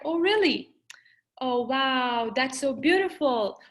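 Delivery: mildly amazed listener responses, lifted at first; demonstrated active-listener enthusiasm; interested reaction. Shown as a demonstration. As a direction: react with interest and wonder, as a demo.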